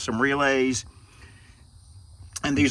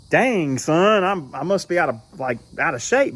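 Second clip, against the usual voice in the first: a mock alarmed "dang, son"; mock surprise; 4 semitones higher than usual. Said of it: "and it's like".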